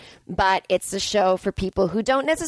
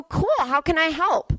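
what he should have said; 9 semitones higher than usual. Retold or imitated. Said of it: "you go".

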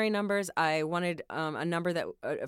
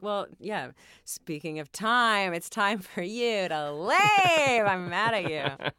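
slow pointed kiss-off; much slower than usual. Retold or imitated. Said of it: "and I'd be like".

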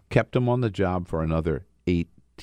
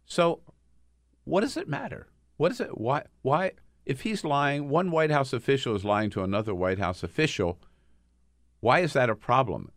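higher, sing-song mocking of the counsel's what-does-it-matter; mock incredulous question; 6 semitones higher than usual. Host mocking the White House counsel's question to Yates, incredulous. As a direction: act baffled that lying could matter. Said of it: "and he says".

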